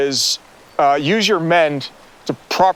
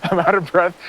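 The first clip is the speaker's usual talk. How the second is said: breathless laugh through the words; laughing, out of breath; 4 semitones higher than usual. Real, not acted. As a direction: giggle while panting.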